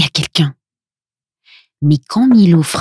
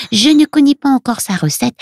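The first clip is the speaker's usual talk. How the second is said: put-on high little-girl character voice; Luna; 8 semitones higher than usual. A narrator's reading. Little girl shows friends her mother's remedies, high child voice. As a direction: explain it all as a small girl, high-pitched.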